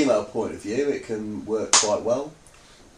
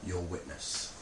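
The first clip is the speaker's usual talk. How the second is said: smug; 6 semitones lower, 17 dB quieter than usual. Acted. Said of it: "look so smug".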